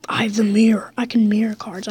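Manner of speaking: secretive whisper. Real, not acted. Gamer whispers his secret card plan.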